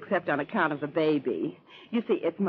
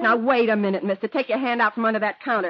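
loud, tense command; sharp warning; 4 semitones higher, 4 dB louder than usual. Acted. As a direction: stop him cold with a threat. Robber sees hand under counter.

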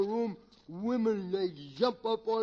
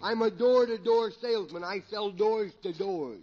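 slurred, tipsy comedy character; comic drunk; 4 dB louder than usual. Acted. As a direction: play a rambling drunk for laughs. Drunk describes his job.

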